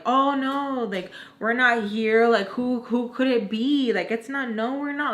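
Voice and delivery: playfully drawn-out fake denial; joking denial. Baltimore joking that they are not back yet, playful mock protest. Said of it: "trying to be funny".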